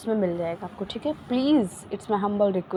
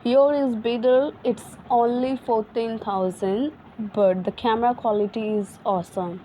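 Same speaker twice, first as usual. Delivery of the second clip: slow repeat for listening; much slower than usual. Shown as a demonstration. Teacher repeats sentence for students to listen, slow and emphatic. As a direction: repeat it slowly and clearly so they can catch every word. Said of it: "Again, try to listen what I am gonna speak".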